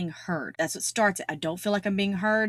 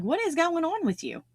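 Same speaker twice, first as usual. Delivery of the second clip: high-pitched incredulous question; acted disbelief, voice leaping high; mock bewildered; 9 semitones higher than usual. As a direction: act taken aback by someone's outburst, pitch jumping up. Acted reaction to someone's outburst.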